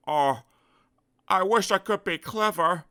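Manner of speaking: sighing. Acted. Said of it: "he sighed".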